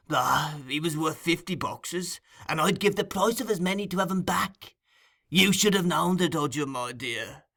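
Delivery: Fagin's voice. Acted. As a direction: purr it like a sly old receiver of stolen goods. Fagin voiced in Oliver Twist.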